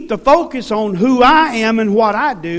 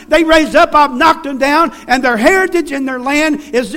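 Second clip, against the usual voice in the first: voice of God; 5 semitones higher, 4 dB louder than usual. Retold or imitated. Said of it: "God says".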